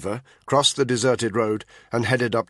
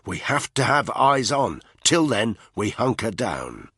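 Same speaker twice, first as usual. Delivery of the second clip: determined; 3 semitones higher, 3 dB louder than usual. Acted. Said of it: "Danny cut in".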